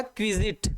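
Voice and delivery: क्विजिट said kwi-zit, as one word; model pronunciation. Shown as a demonstration. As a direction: model क्विजिट clearly for students. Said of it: "इसका pronounce होता है".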